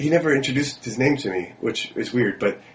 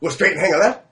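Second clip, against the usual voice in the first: put-on higher, puzzled drunk echoing directions; imitating the confused drunk; 7 semitones higher, 4 dB louder than usual. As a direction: sound baffled and tipsy, voice pushed up. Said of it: "He goes".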